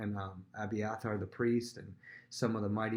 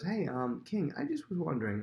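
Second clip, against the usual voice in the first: feigned innocence; 6 semitones higher than usual. Retold or imitated. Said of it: "comes in as if he doesn't know".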